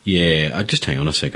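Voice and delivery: talking with a mouthful of coffee; mouth full. Real, not acted. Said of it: "I've got a mouthful of coffee".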